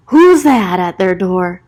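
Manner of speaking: slow, hushed-intrigued question; intrigued gasp. Real, not acted. Narrator spotting someone at George's door, curious. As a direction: draw them in with suspense.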